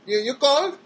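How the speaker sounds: mock her bewildered questioning; imitating Janet. Mimicking confused caller Janet.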